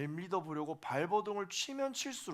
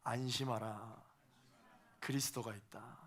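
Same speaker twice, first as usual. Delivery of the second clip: solemn confession; 6 semitones lower, 6 dB quieter than usual. Shown as a demonstration. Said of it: "저 따라서 한번 고백해 보겠습니다".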